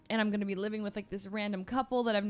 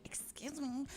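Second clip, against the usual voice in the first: softer, high offended retort; indignant comeback; 7 semitones higher, 8 dB quieter, slower than usual. Retold or imitated. Answering the rude girl who bumped her, soft offended echo. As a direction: throw it back at her, offended. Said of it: "I was like".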